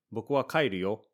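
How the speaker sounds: insistent, pressing on kaeru; emphatic, not happy. Shown as a demonstration. Unhappy guest insisting on going home, emphatic. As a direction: make it clear you're going home. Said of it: "Notice my tone of voice is a little different".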